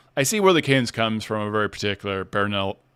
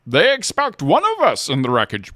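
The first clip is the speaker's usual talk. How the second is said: lightly voiced Bane; 5 semitones higher, 4 dB louder than usual. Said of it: "doing voice impressions".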